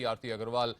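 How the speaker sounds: usual speaking voice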